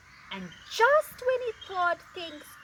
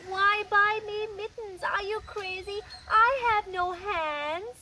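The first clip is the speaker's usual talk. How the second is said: higher, incredulous grumble; exasperated Boa; 7 semitones higher, 4 dB louder than usual. Acted. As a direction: let Boa's frustration show. Boa's inner complaint.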